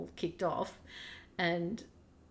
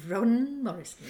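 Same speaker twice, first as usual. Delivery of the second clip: laughing; 3 semitones higher, 6 dB louder than usual. Real, not acted.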